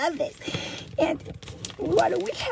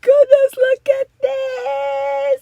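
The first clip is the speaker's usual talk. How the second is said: excited; 4 semitones higher, 8 dB louder than usual. Real, not acted. Opening a gift, thrilled.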